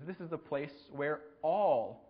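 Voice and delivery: slow, drawn-out warning with each "all" leaned on; a hint of a haunted man spelling out the danger; slow ominous warning. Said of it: "And the guy says".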